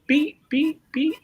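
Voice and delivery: high electronic beeping noise; imitated fax beep. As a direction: mimic a fax machine's beeps. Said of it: "a fax machine going beep".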